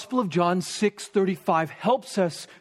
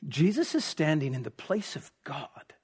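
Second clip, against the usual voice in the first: hushed, whispered in awe; awed whisper; 5 semitones lower, 6 dB quieter than usual. Real, not acted. Preacher whispers to his congregation in awe. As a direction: breathe it out to the congregation.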